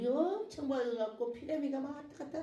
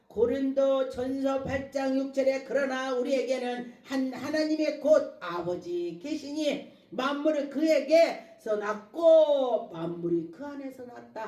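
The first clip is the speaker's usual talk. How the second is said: preaching scripture; 2 semitones higher, 5 dB louder than usual. Acted. Preacher reads scripture to the congregation, declaiming. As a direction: proclaim the verse with long stressed words.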